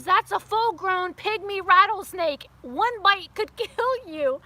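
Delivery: slow, loud, weighty warning; stern warning. Retold or imitated. Dad warning his daughter about the rattlesnake, slow loud stern. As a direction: spell out the danger slowly like a serious father. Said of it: "He goes".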